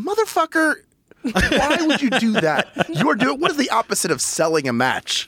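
high-pitched mock outrage; retold exasperation. Viewer retelling reaction to a pre-match promo, incredulous mock outrage. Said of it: "I was watching it going".

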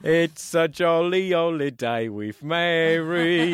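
slow, hammed-up mock Cockney; bad Cockney chimney sweep accent; Dick Van Dyke Cockney. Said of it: "my, uh, Dick Van Dyke and Mary Poppins".

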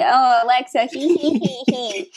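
mock giggly impression of a fellow player. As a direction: tease with spoken giggles and gulps. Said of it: "That's my impression of you".

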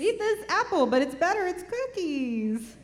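high, sly witch offering a treat; Snow White witch. Retold or imitated. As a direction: tempt them like the fairy-tale hag. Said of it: "It's sorta like Snow White".

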